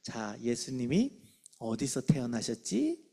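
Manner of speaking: put-on low, slow quiz question to a child; lightly acted teacher, drawing the question out; quizzing teacher. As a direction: ask it slowly and leadingly. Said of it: "끝나기 전에 질문하는 거예요".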